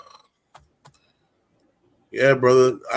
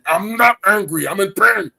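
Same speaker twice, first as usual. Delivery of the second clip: pained insistence; 7 semitones higher than usual. Retold or imitated. Acted pained reply.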